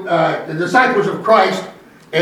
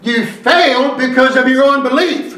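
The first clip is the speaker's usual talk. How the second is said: measured preacher cadence with weighty stresses; emphatic preaching; 5 semitones higher than usual. Real, not acted. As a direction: drive each phrase home to the congregation. Preaches to the congregation.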